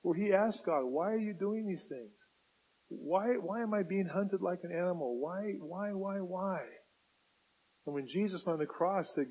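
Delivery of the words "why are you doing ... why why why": outpouring cry. Acted. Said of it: "David's outpouring cry".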